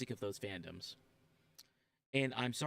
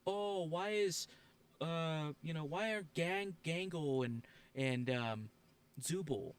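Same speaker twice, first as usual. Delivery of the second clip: whiny complainer mimic; 4 semitones higher, slower than usual. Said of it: "people complain".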